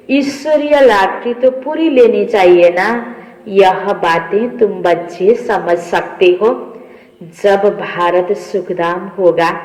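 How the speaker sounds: measured, emphatic reading of a holy text; deliberate devotional recitation; scripture reading. Acted. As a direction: read out the teaching phrase by phrase, drawing out words.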